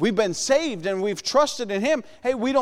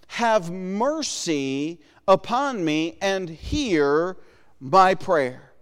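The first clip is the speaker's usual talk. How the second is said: pleading prayer; 2 semitones lower, much slower than usual. Acted. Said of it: "He says".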